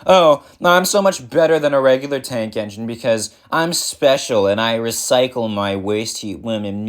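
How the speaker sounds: mocking imitation of a boastful rival; exaggerated, sneering quote of a braggart; patronizing mockery. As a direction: parody a smug, patronizing show-off. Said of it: "patronizing about it".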